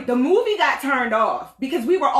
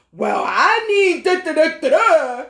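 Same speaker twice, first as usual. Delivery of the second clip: mock husband mumble; 5 semitones higher, 6 dB louder than usual. Mocking husband's talk.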